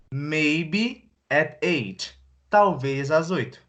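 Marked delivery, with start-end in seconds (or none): 0.1-2.2 very slow, stretched reply; slow example answer "Maybe at eight"; drawn-out answer. Acted. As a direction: stretch each word out as an answer. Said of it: "Se eu pergunto assim pra você".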